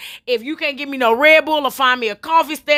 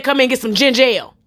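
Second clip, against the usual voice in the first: imitating her; faster than usual. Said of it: "that's how she said it".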